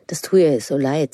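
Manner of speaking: whispered sympathy from the aunt. Retold or imitated. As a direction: breathe it, no voice, full of pity. Aunt consoling her quietly.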